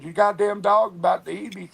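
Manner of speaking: high, urgent frightened plea; retold frantic plea. Telling Rose her dog is about to bite, high panic. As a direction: sound panicked, dog at the door. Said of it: "I said".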